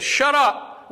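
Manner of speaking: very high-pitched outburst; acted angry outcry; vehement protest.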